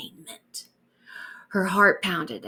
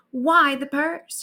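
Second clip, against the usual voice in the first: wondering aloud; 6 semitones higher, 4 dB louder, slower than usual. Acted. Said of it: "she wondered aloud".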